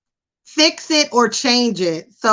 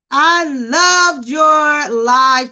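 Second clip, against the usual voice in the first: gushing fan; 4 semitones higher, 3 dB louder, much slower than usual. Retold or imitated. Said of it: "people still will".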